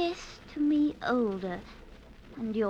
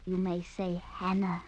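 soft intimate voice; 4 semitones lower, 6 dB quieter than usual. Acted. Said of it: "If you say it softly".

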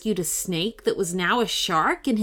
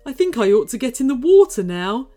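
high, loud, fast creature plea; nervous hurry; 5 semitones higher, 6 dB louder, faster than usual. Acted. Nervous snake asking for help into the water, hurried. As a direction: rush it, anxious. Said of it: "said the snake nervously".

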